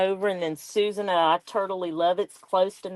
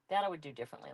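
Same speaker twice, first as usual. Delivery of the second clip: much softer, muttered to herself; quiet repeat; 3 semitones lower, 12 dB quieter, much faster than usual. Real, not acted. Crafter musing to herself about her journal, softly muttered. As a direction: echo the words under your breath.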